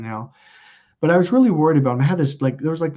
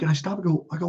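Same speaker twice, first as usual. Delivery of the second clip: usual speaking voice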